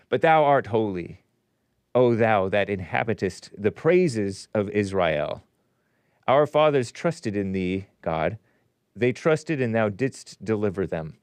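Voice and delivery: slow, emphatic King James recitation; solemn scripture reading. Acted. Host reading Psalm twenty-two to listeners, declamatory. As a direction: declaim it with drawn-out key words.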